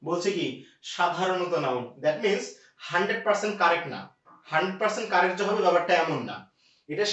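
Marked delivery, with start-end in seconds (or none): 0.9-1.8 সাধারণত stressed, then নাউন falling. Shown as a demonstration. Teacher repeating to students that it is সাধারণত নাউন. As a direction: hit সাধারণত firmly. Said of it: "আমি কিন্তু আপনাকে বলি নাই সব সময় নাউন".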